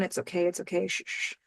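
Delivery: put-on soft, hushed comforting to a baby; shushing. Daisy soothing crying baby Julia, soft hushing. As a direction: hush a crying baby gently. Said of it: "she's shushing her all the way down".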